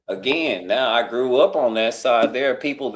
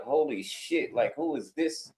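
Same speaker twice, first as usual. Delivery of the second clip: astonished hush; 2 semitones higher, 9 dB quieter than usual. Retold or imitated. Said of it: "They're like".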